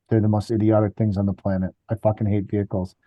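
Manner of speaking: a low, soft, grumpy dad voice, lightly done; grumbling dad. Retold or imitated. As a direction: mutter it low like a fed-up father. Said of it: "my dad was like".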